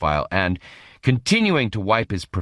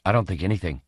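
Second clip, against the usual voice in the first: croaking; much faster than usual. Acted. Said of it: "he croaked honestly".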